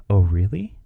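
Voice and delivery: questioning lift on really; mildly surprised. Shown as a demonstration. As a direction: ask it with curious disbelief. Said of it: "Well, that's surprising".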